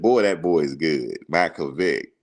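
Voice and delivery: lightly imitated country accent; a country coach marveling at a player; Coach Bowden. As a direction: put on a bit of country accent. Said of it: "he had the real country accent".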